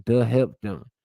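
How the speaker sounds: Gullah Geechee creole sentences, lightly voiced; reading Gullah examples. Shown as a demonstration. Vlogger reads Gullah grammar examples to viewers, lightly accented. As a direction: sound out the Gullah verb forms, a hint of Gullah accent. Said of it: "it sound like broken English".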